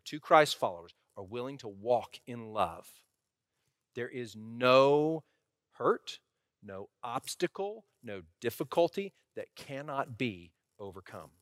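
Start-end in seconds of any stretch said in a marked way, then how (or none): 3.9-11.3 measured emphasis with pauses before "hurt" and "no obstacle"; slow down on "there is no", then set each item apart; emphatic. Real, not acted. Pastor assuring church that couples can overcome, quietly emphatic. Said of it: "I'm saying that emphatically".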